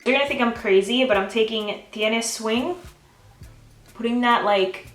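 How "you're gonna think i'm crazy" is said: normal talking voice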